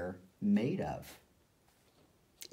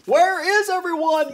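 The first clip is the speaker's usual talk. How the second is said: conductor muttering; 7 dB louder than usual. A narrator's reading. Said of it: "muttered the conductor".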